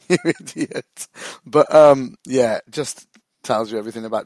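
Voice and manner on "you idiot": higher, mock outraged mimic of a mate; incredulous retort. Mate retorting to a drunk fan's insult, incredulous and mocking. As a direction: throw it back at him in disbelief. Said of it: "He was like".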